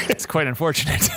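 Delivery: theatrical faux regret; mock-sorry gloat. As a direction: gloat over it grandly. Prisoner gloating loudly.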